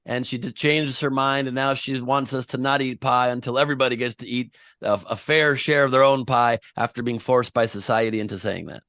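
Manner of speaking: loud news-anchor read; mock announcement.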